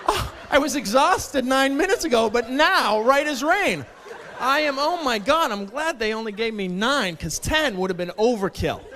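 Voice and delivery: high, bright mock-refreshed gushing; sarcastic mock cheer. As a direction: gush sarcastically about the nap. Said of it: "has anyone ever woken up refreshed".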